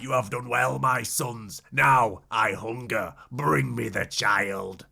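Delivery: the rat master savours it, low and slow; sinister rat master. Retold or imitated. Splinter to his turtle sons, slow low menacing.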